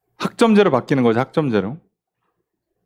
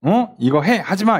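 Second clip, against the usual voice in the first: higher-pitched mock telling-off; acted scolding; 3 semitones higher than usual. Superior telling off those under them, scolding. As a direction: play a boss giving orders, without raising volume. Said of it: "위에 사람이 막 혼내켜요".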